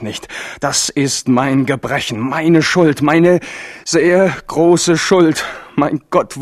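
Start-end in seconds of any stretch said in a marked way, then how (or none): 2.2-5.4 steigert sich lauter, auf dem Ende stark verlangsamt; anschwellende Selbstanklage. Acted. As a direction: sich die Schuld laut und gedehnt eingestehen. Henri klagt sich selbst an. (Henri bekennt seine Schuld, anschwellend und gedehnt)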